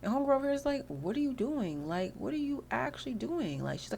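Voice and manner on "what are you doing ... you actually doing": mock incredulous. Housemate catches intruder at the sink, mock incredulous. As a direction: act out a baffled confrontation. Acting out sim confronting Cecilia at sink.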